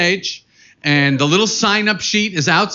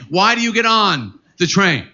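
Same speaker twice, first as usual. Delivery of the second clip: ordinary talk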